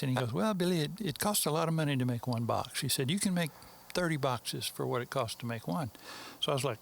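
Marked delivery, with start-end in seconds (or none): 0.3-2.8 fake English accent. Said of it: "my fake English accent". 3.1-5.9 fake English accent. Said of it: "my fake English accent".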